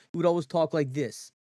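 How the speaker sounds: imitating an uncle's Eastern accent; uncle's Chicago accent. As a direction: lightly put on a Chicago, East Coast accent. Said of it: "that's how my uncle would always talk".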